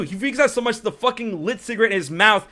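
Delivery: usual speaking voice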